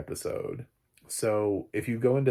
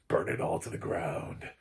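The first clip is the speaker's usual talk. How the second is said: mock whisper; 3 semitones lower than usual. Imagining a bleak finale.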